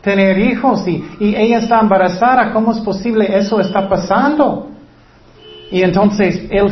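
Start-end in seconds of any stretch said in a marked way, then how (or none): 0.0-4.7 higher-pitched, bewildered pleading; imitated anguished plea, pitch raised throughout; distressed prayer. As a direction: act out a sleepless man questioning God.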